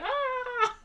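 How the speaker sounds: high, thin mock scream. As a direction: squeal out a pretend shriek. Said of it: "she's, like, shouting".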